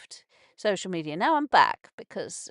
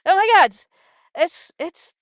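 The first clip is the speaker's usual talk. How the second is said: real shock, high and loud; 8 semitones higher, 9 dB louder than usual. Real, not acted. Vlogger reacting to an appalling post online, loud shocked exclamation. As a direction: gasp it out in disbelief.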